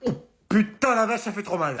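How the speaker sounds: high yelp of pain; hammed-up hurt; acted pain cry. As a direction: cry out as if just whacked. Just hit himself with a pan.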